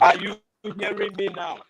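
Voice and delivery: faint, muffled call audio; distant bluetooth headset mic; faint bad mic. Real, not acted. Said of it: "Kezo, you sound faint".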